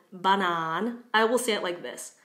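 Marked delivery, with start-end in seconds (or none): 0.1-1.0 "banan" with full "ba" and long "nan"; Czech long vowel. Shown as a demonstration. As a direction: clear "ah" in both syllables of "banan". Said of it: "I didn't say banan".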